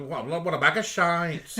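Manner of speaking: high Lancashire impression, loudly indignant; high-pitched Lancashire accent. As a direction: do a loud, slow Lancashire moan. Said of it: "sort of high-pitched Lancashire accent".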